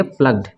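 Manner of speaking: प्लग्ड in one syllable; no vowel before the D in प्लग्ड; silent E. Shown as a demonstration. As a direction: say प्लग्ड with G running straight into D. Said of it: "ई को नहीं पढ़ा जाएगा".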